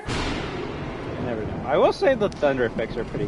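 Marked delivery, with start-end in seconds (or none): 0.0-1.6 slow, eerie breathy whisper; spooky whisper. Pretend. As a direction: drag it out like a ghost story tease. Ominous quip after spooky game line.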